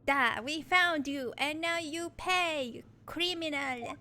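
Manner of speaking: slow, hammed-up Russian accent; menacing Russian game villain. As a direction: accuse in a heavy, deliberate Russian accent. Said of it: "You heard the Russian accent".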